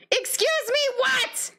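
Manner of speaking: very high incredulous squeal; shriek-like pitch in mock outrage; hammed-up disbelief. Player at the top of the endless loop, hammed-up disbelief.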